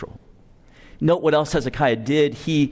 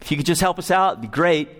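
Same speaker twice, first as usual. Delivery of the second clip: casual; faster than usual. Retold or imitated. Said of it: "He doesn't say".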